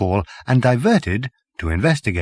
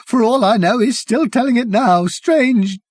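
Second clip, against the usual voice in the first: savage; 8 semitones higher, 3 dB louder than usual. Acted. Savage journalist continues.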